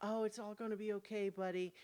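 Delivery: soft, very gentle, coaxing, soothing voice. Describing a player calming a character before striking: most gentle soothing voice. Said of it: "doing just the most gentle".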